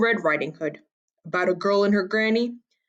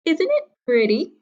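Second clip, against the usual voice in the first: put-on girl's voice; 9 semitones higher than usual. A narrator's reading. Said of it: "she said".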